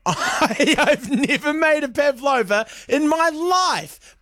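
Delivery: high, laughing through the words; real laughter breaking into speech; laughing confession. Real, not acted. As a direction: confess it slowly while cracking up. Laughs confessing his pavlova bluff.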